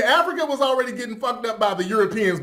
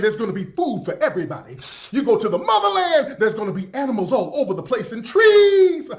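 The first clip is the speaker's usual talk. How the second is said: mock salesman. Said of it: "He sells the motherland as".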